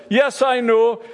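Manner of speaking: impatient official. Retold or imitated. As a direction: snap it out like the meeting chair who's heard it before. Official cutting Boris off impatiently.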